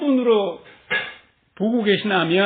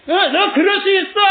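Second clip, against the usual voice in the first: higher and louder, breezy reassurance; mock cheery reassurance; 8 semitones higher, 6 dB louder than usual. Friend brushing off a fault, higher and louder. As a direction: toss it off like a forgiving friend. Quoting others' indulgent reply.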